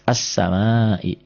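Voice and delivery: as-samai slowly, with a doubled s; stretched as-samai, l left silent; as, not al. Shown as a demonstration. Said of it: "Jadi jangan al".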